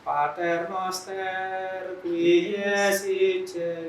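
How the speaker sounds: slow, drawn-out "Pater noster qui es in cielo"; choir-style Latin. Shown as a demonstration. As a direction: stretch each word of "Pater noster qui es in cielo" slowly. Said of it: "paduan suara yang saya kadang ya sedih". ("Pater noster qui es in cielo" diucapkan sangat lambat dan ditarik)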